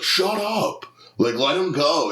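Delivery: high-pitched mock yell; imitated heckler. Drunk heckler defending his friend on stage, mock indignant yell.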